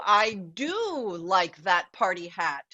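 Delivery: slow line with a long, swooping DO; stress on DO. Retold or imitated. Book dog finally approves of the party hat, DO drawn out. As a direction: stretch out the word do, retelling a storybook.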